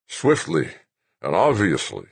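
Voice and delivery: put-on slow, loud fervent old man; preachy old general. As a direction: pronounce judgment like a sermon.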